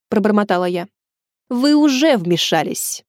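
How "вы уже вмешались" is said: slow, cold and clipped anger; curt angry retort. Acted. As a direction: throw it back, barely restrained. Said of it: "сердито бросила дама". (хозяйка ателье сердито бросает вмешавшейся покупательнице)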